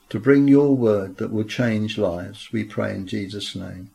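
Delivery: earnest pastoral prayer voice; a preacher's fervent closing prayer. Acted. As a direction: pray aloud over the congregation.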